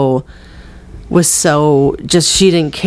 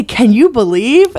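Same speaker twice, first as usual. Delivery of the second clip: higher, sing-out amazed question; catchphrase amazement; 5 semitones higher than usual. Shown as a demonstration. Showing the phrase they say all the time, amazed. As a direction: exclaim it like a pet catchphrase. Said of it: "I say".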